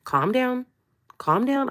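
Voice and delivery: gently calm someone who is crying; soothing partner. Retold or imitated. Retelling him comforting her, soothing.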